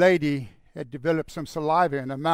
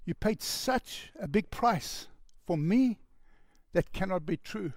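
higher, slow, awed disbelief; disbelieving woman; 3 semitones higher, 4 dB quieter than usual. Retold or imitated. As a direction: let her barely believe it.

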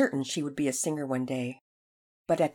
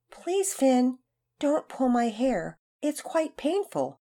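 put-on high, slow, sugary little-girl voice; a prim girl pleading sweetly; mock gentle plea; 7 semitones higher, 4 dB louder, slower than usual. Girl mock-sweetly asks Finn to stop, high and slow. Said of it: "she had gently asked Finn".

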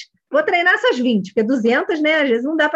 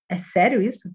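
lower, restrained "is that so?"; noncommittal; 5 semitones lower than usual. Shown as a demonstration. Coach reacts neutrally to a parent's shocking statement, noncommittal. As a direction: ask it on the fence, giving no judgement away. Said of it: "assim, bem no meio do muro".

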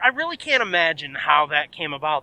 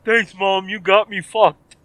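sarcastic thanks; slower than usual. Pretend. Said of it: "sarcastic thanks to mom".

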